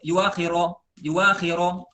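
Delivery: yuwakhiro with a clear w; hamzah changed to waw. Shown as a demonstration. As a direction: say yuwakhiro with a full waw, not yuakhiro. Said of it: "bukan yuakhiro". (yuwakhiro dengan waw jelas)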